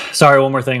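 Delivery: breathless, sighing between words; out of breath. Real, not acted. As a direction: talk while short of breath. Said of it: "I'm, like, running out of breath".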